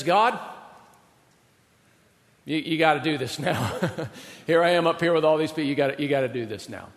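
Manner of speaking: half-laughing, begging God to hurry; urgent plea. Retold or imitated. Elijah urging God on mountain.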